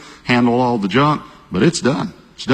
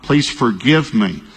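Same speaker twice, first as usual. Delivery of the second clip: retold repentant prayer. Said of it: "I'm repenting".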